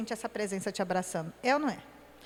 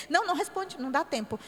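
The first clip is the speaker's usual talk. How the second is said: hurried, no time; 2 semitones higher, faster than usual. Shown as a demonstration. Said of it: "Isso é falar com Deus".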